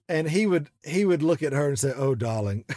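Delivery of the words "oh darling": stepfather's English accent, lightly mimicked; imitated English accent. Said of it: "doing those little accents like that".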